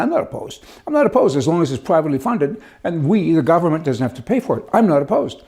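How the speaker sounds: a hint of a slippery politician dodging, mock innocent; half-hearted mock of the premier backpedalling. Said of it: "All of a sudden he's saying".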